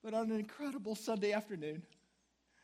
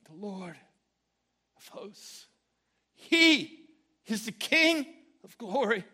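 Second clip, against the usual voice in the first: excited reading; 3 semitones higher, 11 dB louder, slower than usual. Retold or imitated. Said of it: "something just happened".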